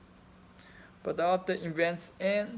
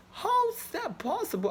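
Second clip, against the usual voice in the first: much higher, pleading cry of disbelief; high anguished question. Real, not acted. Grieving man asks in disbelief.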